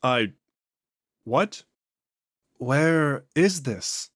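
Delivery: slow, drawn-out otherworldly voice; an ancient thing speaking through a man; eerie, unhurried entity; possessed alien voice. Acted. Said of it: "Vaughn's voice and inflections are noticeably different".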